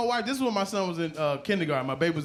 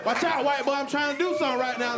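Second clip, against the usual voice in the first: mock shove-aside warning; 6 semitones higher than usual. Dad brushing past the school worker, mock warning.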